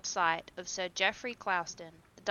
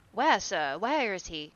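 louder urgent question; shouting; 5 dB louder than usual. A narrator's reading. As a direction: call out anxiously. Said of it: "he shouted".

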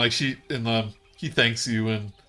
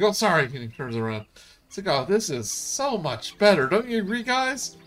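character voice; 8 semitones higher than usual. Acted. Clapperclaw shows off his new head.

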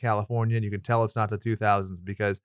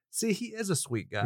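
mock sweet voice; 7 semitones higher, 6 dB quieter than usual. Mocking sweet-talk quote.

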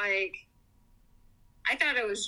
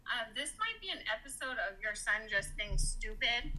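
softer, offhand put-down; dismissive doctor; 6 dB quieter than usual. Retold or imitated. Mean doctor doubts the mother about her son, dismissive. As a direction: imitate a doctor casually dismissing it. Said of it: "he just said it like that".

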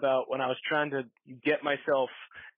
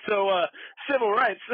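mock serious voice; 7 semitones higher, 5 dB louder than usual. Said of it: "I'm like".

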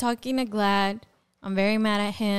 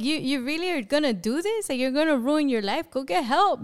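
high, fast exasperated questioning; mild mock yell, rushed and incredulous; retold screaming; 5 semitones higher, faster than usual. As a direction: retell scolding a husband, pitched up without real volume. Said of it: "I start screaming at him".

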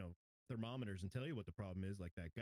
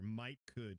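Southern phrase; 2 semitones lower than usual. Retold or imitated. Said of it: "that's not a phrase I've ever heard".

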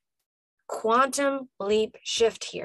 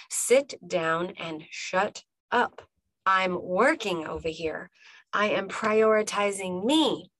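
calm, settled "Sit down and shut up" that owns it; mean every word of "Sit down and shut up", grounded; deep, embodied. Shown as a demonstration. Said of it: "so deep, and you embody it".

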